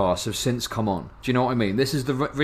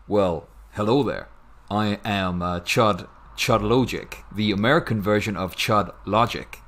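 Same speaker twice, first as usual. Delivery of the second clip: put-on American accent; 4 semitones lower than usual. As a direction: chat asked for it, he tries an American accent. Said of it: "can you do an American accent".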